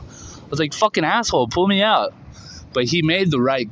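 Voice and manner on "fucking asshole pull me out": high, exasperated mock yell; retold scream. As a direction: replay cursing at the man to rescue you. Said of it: "I remember just screaming at him".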